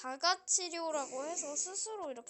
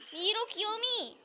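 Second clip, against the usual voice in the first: breathy cutesy giggly call; cutesy squeal; 6 semitones higher, 7 dB louder than usual. Pretend. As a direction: squeal it like a cute kid. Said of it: "미로 귀요미 하니까 바로 열리네?".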